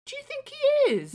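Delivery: very high, loud voicing of the baby; mock baby voice. Mother voicing her newborn in a squeaky voice. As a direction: speak as the baby, squeaky and chuffed.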